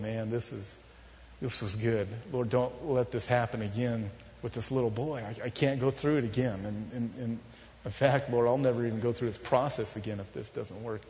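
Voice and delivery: retold quiet plea. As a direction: plead gently under your voice, as if recalling it. Retelling his prayer holding the baby.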